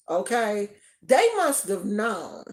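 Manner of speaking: ordinary delivery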